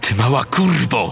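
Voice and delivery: forced out through gritted, clenched teeth. A narrator voices a woman just bitten by a dog, screaming through clenched teeth. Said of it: "wrzeszczała przez zaciśnięte zęby".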